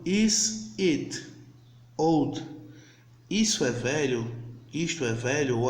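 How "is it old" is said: slow demo English. Shown as a demonstration. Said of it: "E voltando".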